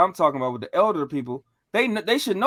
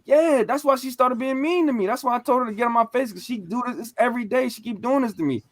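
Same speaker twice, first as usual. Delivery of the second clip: put-on high-pitched, pleading kid's protest; retold complaint; 5 semitones higher than usual. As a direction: replay a teenager pouring out a grievance. Retold plea to uncle about grandmother.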